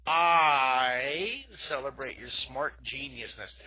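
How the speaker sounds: loud, slow, grand praise; celebratory cheer. Shown as a demonstration. Art teacher cheering the kids again, bigger. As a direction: proclaim it slowly like a toast. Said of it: "Look at, ready?".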